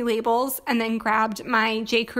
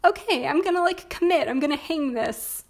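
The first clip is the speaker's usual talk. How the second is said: excited self-talk; 5 semitones higher than usual. Retold or imitated. Retold decision to hang mirror.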